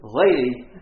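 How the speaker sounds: loud, sharp call of "Lady"; retold yell. Brother yelling at the nurse who stopped to help. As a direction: bark it out at the nurse. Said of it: "And my brother says".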